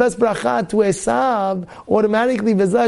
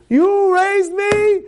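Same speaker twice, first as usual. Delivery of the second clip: drawn-out plea; 12 semitones higher, much slower than usual. Acted. Son pleading with his father.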